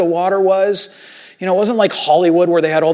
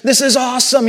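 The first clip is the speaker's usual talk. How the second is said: amazed "whoa", pitch climbing; playfully acted thrill, higher voice; imagined excitement; 4 semitones higher than usual. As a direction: imitate Peter marveling at himself. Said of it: "You can imagine the excitement".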